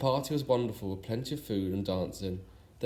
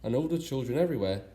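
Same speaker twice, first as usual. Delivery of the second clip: sing-song reading of a rhyme; rhyming verse. A narrator's reading. Narrator closing the story with a fond rhyme, in lilting verse. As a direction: read the verse with a lilting beat.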